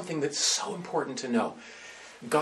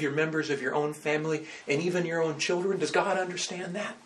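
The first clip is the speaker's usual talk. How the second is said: retold angry snap; 3 dB louder than usual. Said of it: "she snapped at me".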